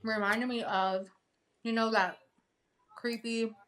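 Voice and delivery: talking while chewing gum; words round a piece of gum. Real, not acted. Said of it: "sorry guys, I'm chewing gum".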